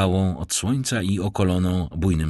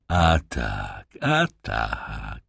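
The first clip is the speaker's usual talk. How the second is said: a sly beggar bowing with false politeness; rough vagrant voice; 8 semitones lower, much slower than usual. Acted. Stranger insists.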